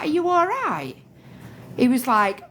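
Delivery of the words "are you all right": worried mum. Retold or imitated. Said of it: "I was like".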